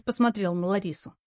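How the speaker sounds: ordinary delivery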